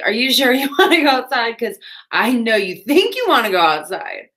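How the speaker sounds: teasing the cats. Pretend. Teasing reply to her cats.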